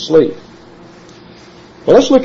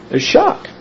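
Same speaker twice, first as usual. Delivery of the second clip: plain; 12 semitones higher, 4 dB quieter than usual. Shown as a demonstration. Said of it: "preacher stressing shock".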